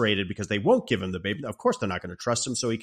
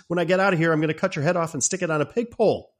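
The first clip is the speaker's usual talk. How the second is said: high, loud, fast snarl of a threat; caged rogue firing back a threat at his old comrade; threatening retort; 7 semitones higher, 3 dB louder, much faster than usual. Retold or imitated. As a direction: spit the threat back at him quickly. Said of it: "Madmartigan's retort is".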